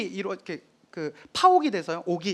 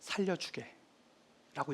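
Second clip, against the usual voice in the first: 조용한 부탁; 3 semitones lower, 11 dB quieter, much slower than usual. Retold or imitated. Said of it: "세종이".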